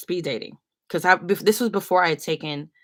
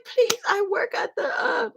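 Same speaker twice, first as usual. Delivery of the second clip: much higher, calling out kindly; eager old lady. Retold or imitated. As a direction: insist warmly like a helpful auntie. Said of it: "she's like".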